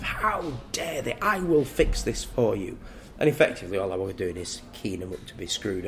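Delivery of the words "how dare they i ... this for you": mock indignation. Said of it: "this rage internally of".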